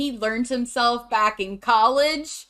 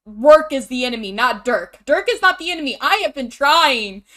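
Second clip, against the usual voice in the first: louder, imitated cult-member insistence; emphatic protest; 6 dB louder than usual. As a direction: plead the cause loudly, mock-earnest. Acted quote of cult girlfriend protesting.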